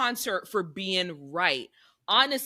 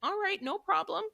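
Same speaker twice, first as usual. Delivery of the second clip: bright reassurance; 2 semitones higher than usual. Retold or imitated. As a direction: lift the voice to calm him. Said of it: "And it's like".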